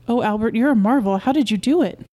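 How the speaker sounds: wife gushing with relief and wonder; delighted admiration. Acted. Wife marvels at husband's success.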